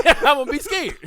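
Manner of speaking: cracking up mid-line; laughing. Real, not acted. Friends joke about actor's accent, laughing.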